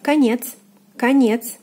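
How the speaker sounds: конец as "ka-NYETS", stress on е; careful falling model конец; unstressed O as A. Shown as a demonstration. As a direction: say конец with first vowel "a". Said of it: "O is unstressed".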